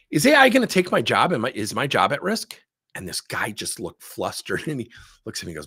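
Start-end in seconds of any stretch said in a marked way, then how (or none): 0.1-2.6 role-play anxious employee. Pretend. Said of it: "I'm gonna role play".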